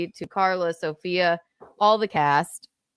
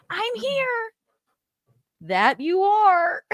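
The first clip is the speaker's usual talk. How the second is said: mock stage exchange; 12 semitones higher, slower than usual.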